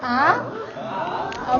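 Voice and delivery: AH rising like a surprised question. Shown as a demonstration. Teacher plays surprised dentist for the class, rising tone. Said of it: "He's very surprised".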